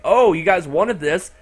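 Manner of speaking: Monokuma. Acted. Monokuma taunts the players at the door, mocking. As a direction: dangle the prize in a mock-generous voice. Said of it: "Monokuma also mocks him".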